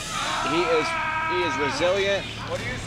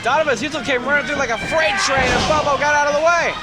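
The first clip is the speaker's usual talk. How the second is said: excited; 4 semitones higher than usual. Real, not acted. Commentator reacts to a near miss.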